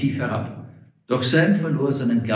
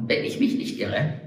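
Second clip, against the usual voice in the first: chuckling; 13 semitones higher, 5 dB quieter than usual. Acted. Sam chuckles at own phrase.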